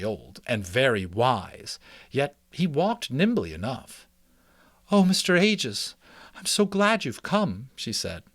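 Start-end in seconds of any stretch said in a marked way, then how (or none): 4.9-7.7 higher, eager mouse mother voice; a worried mouse mother, relieved to see him. Acted. Mrs Frisbee voiced, relieved.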